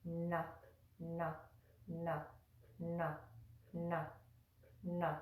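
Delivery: na with the tongue curled back to the roof of the mouth; retroflex na. Shown as a demonstration. Teacher drilling the retroflex na sound. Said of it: "it's pronounced like this".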